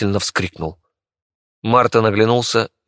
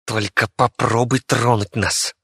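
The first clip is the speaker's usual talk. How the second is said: hissed threat; 2 semitones higher, slower than usual. Acted. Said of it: "прошипела Вики".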